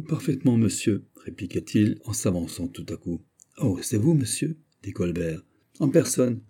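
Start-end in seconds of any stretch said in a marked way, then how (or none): 5.8-6.4 deliberate tone. Acted. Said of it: "avec son ton délibéré".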